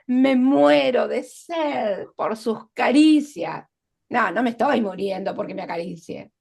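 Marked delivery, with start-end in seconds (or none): 0.1-3.7 declamado lento y exagerado; exageración. Shown as a demonstration. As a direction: alarga cada palabra con dramatismo. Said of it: "hipérbole, exageración". (exageración teatral y lenta)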